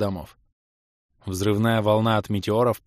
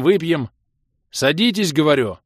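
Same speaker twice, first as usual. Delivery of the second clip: high, loud insistent calling; shouting over the roar of battle; shout over cannon fire; 5 semitones higher, 4 dB louder than usual. A narrator's reading. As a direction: shout them down to sit. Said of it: "крикнул я".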